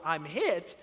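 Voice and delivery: understated imitation of a yell; retold yell. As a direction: report the kid's cry with little force. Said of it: "'cause he yells".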